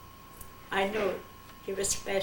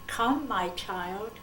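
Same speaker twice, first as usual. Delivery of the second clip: slow voice of the Lord; much slower than usual. Retold or imitated. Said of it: "and it says".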